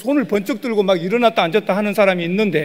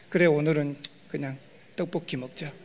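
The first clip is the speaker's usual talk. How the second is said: resigned giving in; 5 semitones lower, 8 dB quieter than usual. Retold or imitated. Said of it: "그러는 거예요".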